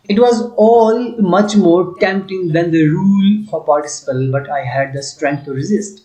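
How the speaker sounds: slow, deliberate read-aloud of the English passage. Shown as a demonstration. Teacher reading the story to students, slow and clear. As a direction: read it out slowly for the class.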